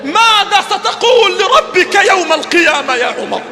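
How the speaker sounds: fervent, rising sermon plea; preaching lament. Acted. Preacher lamenting to Umar, fervent and building. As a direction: cry out to Umar like a grieving preacher.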